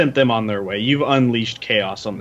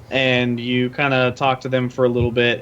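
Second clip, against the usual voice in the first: ordinary delivery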